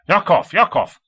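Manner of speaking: high, loud desperate plea; imploring shout into the microphone. A narrator's reading. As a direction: call out begging for an answer. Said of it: "Komov implored".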